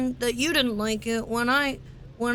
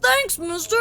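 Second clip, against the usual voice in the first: put-on high, eager little boy; 5 semitones higher than usual. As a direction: play an excited young kid.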